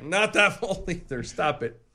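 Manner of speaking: laughing through the words; giggling while speaking. Real, not acted. Laughing through repeated quote.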